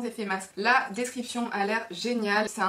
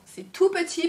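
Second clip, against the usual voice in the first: higher, louder, gushing over tiny; cutesy; 7 semitones higher, 6 dB louder than usual. Real, not acted. Vlogger gushing over a tiny sample, cutesy voice. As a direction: coo it like it's adorable. Cutesy repeat of same words.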